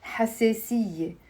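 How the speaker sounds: حساسية said ha-se-siye; Lebanese e vowel. Shown as a demonstration. Teacher modelling Lebanese dialect, alif as e. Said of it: "we pronounce that alif as a e".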